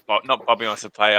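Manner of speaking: ordinary delivery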